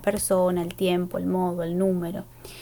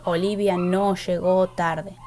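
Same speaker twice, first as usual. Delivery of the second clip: Olivia no llegó tarde read slowly, no lifted; slow full version; slower than usual. Shown as a demonstration. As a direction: spell out the full sentence slowly. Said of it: "no necesita decir". (versión completa leída despacio)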